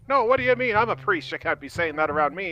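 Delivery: a priest scolding the captain for cursing; clutching his pearls, mock indignant; offended priest. Priest protests the swearing.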